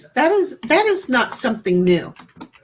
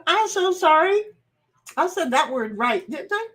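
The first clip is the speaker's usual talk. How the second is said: mock apology; 5 semitones higher than usual. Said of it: "he's all like".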